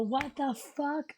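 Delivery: slow, drawn-out shocked croak; stunned, dragging each word. Retold or imitated. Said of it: "and then I go".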